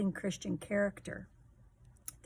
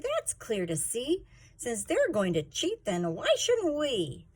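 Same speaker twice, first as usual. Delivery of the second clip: put-on a bit higher, indignant kid; indignant Blizzy; 5 semitones higher than usual. Blizzy telling her team at the meeting, indignant and higher. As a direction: point out the cheating, upset. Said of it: "said Blizzy".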